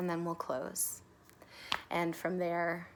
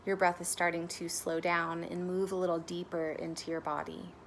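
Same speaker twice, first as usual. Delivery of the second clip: measured guidance with long pauses; guided meditation. Real, not acted. Meditation guide leading listeners to notice their breath, calm guidance. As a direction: guide them gently into noticing the breath, unhurried.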